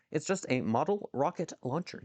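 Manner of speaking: deliberate, word-by-word delivery; careful retry. Real, not acted. Streamer retrying a fumbled phrase to chat, careful and deliberate.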